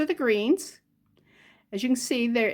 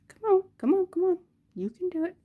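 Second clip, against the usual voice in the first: higher, louder urging come on; 9 semitones higher, 3 dB louder, faster than usual. Real, not acted. Coaxing the stuck string off with tiny pliers, higher and louder. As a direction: egg the pliers on, rising and pushing.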